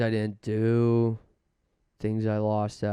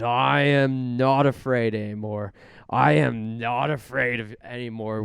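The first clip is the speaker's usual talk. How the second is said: Cowardly Lion quote; 6 dB louder than usual. Retold or imitated. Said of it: "where Cowardly Lion says".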